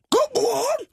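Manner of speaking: high, cautious falsetto; careful good morning. Acted. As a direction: greet him gingerly in a high voice. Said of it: "sagde hun forsigtigt".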